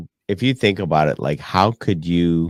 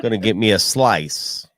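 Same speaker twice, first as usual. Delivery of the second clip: jokey New Yorker talk; mock New York accent. Co-host playing a New Yorker after pizza, New York accent. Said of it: "just New York".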